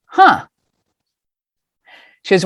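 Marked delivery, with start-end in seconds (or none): 0.1-0.5 retold reaction. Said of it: "Her response was".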